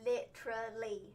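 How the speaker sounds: "Literally." in a soft British accent, the t tapped and the ending falling. Shown as a demonstration. Showing her co-host how the British say it, in a soft British accent. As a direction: say "Literally." the British way, the t light, the word dropping at the end. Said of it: "literally say it like that".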